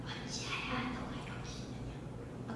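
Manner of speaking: whispered, slow and very soft; hushed whisper of God; still small voice. Shown as a demonstration. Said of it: "지금 세미한 음성이니까".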